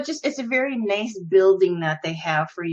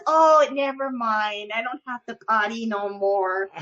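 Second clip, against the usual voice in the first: husband's put-on simpleton voice. Wife imitating husband giving up the act's demand, childish voice. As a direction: drag it out like a goofy child. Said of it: "act like a special ed person".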